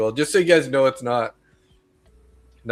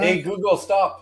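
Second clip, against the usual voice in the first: yelling across the room; 6 semitones higher than usual. Real, not acted. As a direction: shout it across the room at the device. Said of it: "yelling across the room at the Google".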